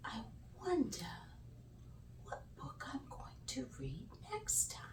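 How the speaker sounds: very soft, whispered wondering; hushed musing. Real, not acted. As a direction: muse to yourself in a whisper. Storyteller muses softly at bedtime.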